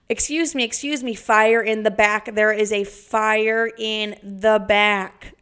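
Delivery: loud, slow, urgent fire warning; hammed-up panic call on the phone; mock alarm.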